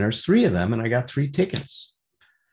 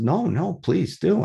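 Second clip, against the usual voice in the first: higher-pitched, eager reassurance; earnest insistence; 4 semitones higher, slower than usual. Retold or imitated. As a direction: wave off their hesitation, pitch lifted. Insisting the strangers share tickets.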